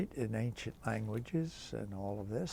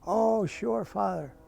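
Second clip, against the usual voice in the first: higher, louder chirpy yes; cheerful secretary; 8 semitones higher, 5 dB louder, slower than usual. Retold or imitated. Margie answering the priest on the phone, bright and higher. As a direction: chirp back like an obliging secretary.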